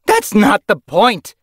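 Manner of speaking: loud, high, slow snarl; furious snarl. A narrator's reading. Yellowfang rebuking her leader, furious snarl. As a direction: snarl each word at him. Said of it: "Yellowfang snarled".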